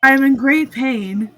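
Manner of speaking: mock robotic cry of pain; monotone pain impression. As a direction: imitate someone announcing agony without feeling. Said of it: "That's just how Sierra's response to pain now".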